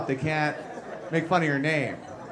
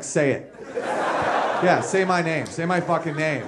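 gloating laughter; 4 semitones lower, slower than usual. Retold or imitated. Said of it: "I'm just like".

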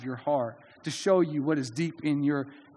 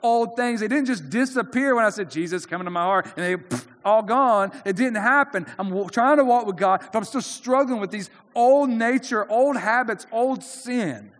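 struggling believer; 5 semitones higher, 4 dB louder than usual. Retold or imitated. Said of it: "those of us who would say".

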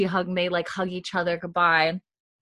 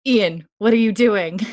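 loud, higher retold outcry; alarmed protest; 4 semitones higher, 8 dB louder than usual. Uncle challenges nephew who volunteers, alarmed. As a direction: call out in mock alarm.

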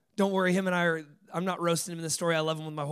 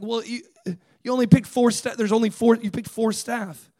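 imitated upset protest, higher and louder; upset student; 4 semitones higher, 8 dB louder than usual. Student complains to the leader about staff picks, acted upset. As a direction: stammer out an indignant accusation as the student. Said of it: "tell me again what you're upset about".

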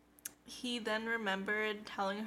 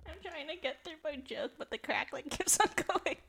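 laughing; 6 semitones higher, 4 dB louder than usual. Real, not acted. Laughing through mic trouble.

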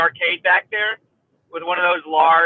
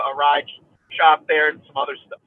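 hiccups; 2 semitones lower than usual. Real, not acted. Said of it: "I'm still hiccuping from the ride".

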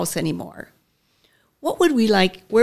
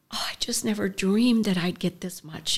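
hushed whisper; 5 dB quieter than usual. Retold or imitated. First-time food shelf visitor thanks.

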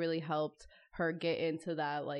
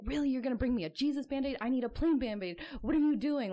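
high-pitched mock outrage; retold flipping out; 7 semitones higher, 4 dB louder than usual. Imitating a husband flipping out at his wife over a Band-Aid, mock outrage. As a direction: imitate an indignant husband losing it. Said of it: "flipping out at her".

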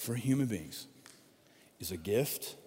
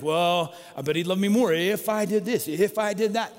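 lightly acted insecure inner voice, pitched up; a touch louder and higher, mock bargaining; insecure self-talk; 4 semitones higher, 5 dB louder than usual. Preacher voices his own doubts about God's love, mildly insecure. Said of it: "I feel insecure. And I think".

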